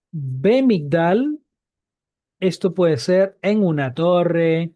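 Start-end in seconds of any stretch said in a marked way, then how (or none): 0.1-1.4 Ve Migdal said very slowly, each word set apart; slow demonstration. Shown as a demonstration. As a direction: lay out Ve Migdal slowly for students. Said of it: "Si yo digo".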